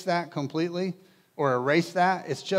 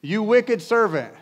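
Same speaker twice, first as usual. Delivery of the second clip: much higher, louder, slow and furious; angry rebuke; 7 semitones higher, 7 dB louder, slower than usual. A narrator's reading. Master condemning the wicked servant, loud hammed-up anger. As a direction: roar the accusation, slowly. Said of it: "In anger".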